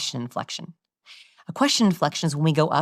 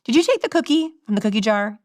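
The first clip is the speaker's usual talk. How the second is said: mildly higher-pitched parent's question; parent questioning daughter; 6 semitones higher than usual. Acted. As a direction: ask your child, lightly accusing. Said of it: "If I say to my daughter".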